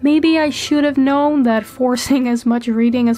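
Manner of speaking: real heavy cold in the voice; stuffy voice. Real, not acted. Voiceover telling viewers they fell ill, stuffy with a cold. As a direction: talk through a stuffed-up head cold. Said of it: "you're just hearing my stuffy voice".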